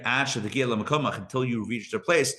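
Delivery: Until you reach their place drawn out slowly, each word weighed; slow it right down so the teaching sinks in; slow emphatic repeat. Shown as a demonstration. Teacher repeating the line to students, slow and deliberate.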